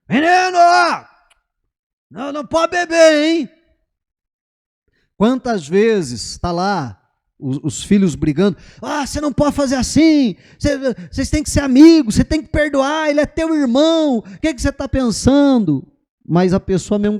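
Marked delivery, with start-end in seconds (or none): 0.1-3.5 put-on high, loud scolding of a child; bronca de pai. Pai repreendendo filho. 8.8-15.9 high, loud lecturing parent; pai repreendendo. Retold or imitated. Pais repreendendo filhos brigando.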